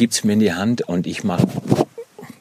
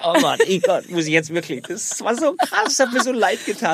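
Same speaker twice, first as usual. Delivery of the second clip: higher, slowed voice close to breaking; half-mock tearful; 12 semitones higher than usual. Father recalling the broken toy car, half-mock tearful. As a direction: let the voice rise and break a little. Recalling the crash with his son.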